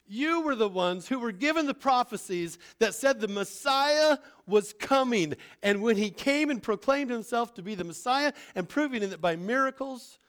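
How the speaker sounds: stern apostle calling them out; Peter's rebuke. Acted. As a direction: drive the accusation home.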